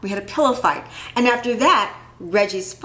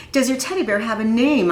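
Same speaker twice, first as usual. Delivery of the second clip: "Does your teddy bear have a name?" repeated a bit louder and firmer; 3 semitones higher, 3 dB louder than usual. Acted. Ira repeats his question to Reggie, a little louder. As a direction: repeat the question so he can't ignore it. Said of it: "I said louder".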